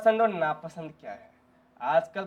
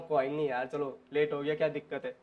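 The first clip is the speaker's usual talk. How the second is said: low, soft, easygoing reassurance; reassuring; 6 semitones lower, 7 dB quieter than usual. Acted. Friend forgiving someone who came late, softly reassuring.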